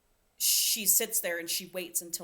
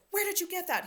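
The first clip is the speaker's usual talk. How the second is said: high, shocked mock shriek; a squeaky, alarmed mock cry; freaked out; 12 semitones higher, faster than usual. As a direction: imitate her panicking at the cheese. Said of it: "Violet freaks out".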